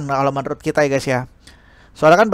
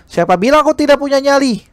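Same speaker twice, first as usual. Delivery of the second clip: higher, indignant challenge; defiant retort; 9 semitones higher than usual. Acted. Girl snapping back at her teacher, high and indignant. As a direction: throw the question back, stung.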